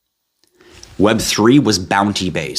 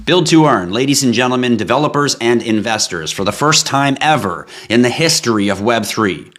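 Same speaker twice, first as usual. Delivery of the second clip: infomercial voice; 3 semitones higher than usual. Shown as a demonstration. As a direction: sell it like a late-night infomercial. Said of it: "I was supposed to make it sound like that".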